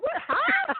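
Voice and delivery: high, loud mock double-take; retold flabbergasted yelp; stunned reaction. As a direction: blurt it in disbelief, voice shooting up. Acts out shock at child's cussing.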